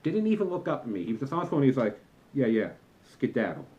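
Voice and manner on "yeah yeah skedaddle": put-on lower, dismissive teen shooing you off; insulting brush-off. Teen on his phone dismissing the usher, contemptuous brush-off. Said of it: "said it with just such insult in his voice".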